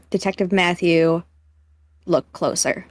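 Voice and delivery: low, slow menacing villain read; ominous villain note. Retold or imitated. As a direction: read the note like a creepy killer. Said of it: "and it said".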